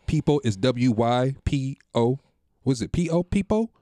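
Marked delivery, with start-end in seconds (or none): 0.4-2.2 slow spelling out. Shown as a demonstration. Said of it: "just for the listeners".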